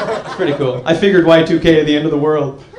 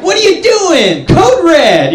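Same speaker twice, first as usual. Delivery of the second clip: high-pitched frantic yelling; over-the-top alarm, voice jumping up high; manager flipping out; 11 semitones higher, 3 dB louder, much slower than usual. Acted. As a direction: freak out like a thrilled manager catching someone. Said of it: "he's, like, flipping out".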